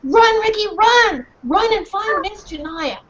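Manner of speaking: high, loud urgent dog cry; small dog barking for help; barking call. Acted. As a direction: yell to send him running. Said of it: "barking as loud as she could".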